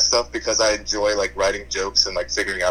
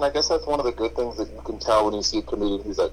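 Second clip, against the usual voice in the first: muffled, like through a bad mic; faster than usual. Real, not acted. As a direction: voice muffled and dull. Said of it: "You sound muffled".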